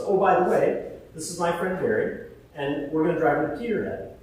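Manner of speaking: spring the news on her cheerfully; cheery announcement. Retold or imitated.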